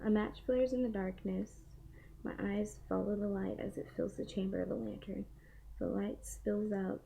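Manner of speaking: steady storybook reading; reading aloud. Acted. Reads a novel passage aloud.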